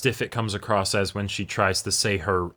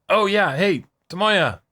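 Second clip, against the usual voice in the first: voicing the character; 4 semitones higher than usual. Voicing a character asking Tomoya.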